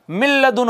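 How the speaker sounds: "मिल लदुन" with a doubled l and no n; इदगाम के साथ. Shown as a demonstration. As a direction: join mil to ladun on one held l. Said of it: "लाम में मुदगम कर देंगे". ("मिल लदुन" में लाम पर शद)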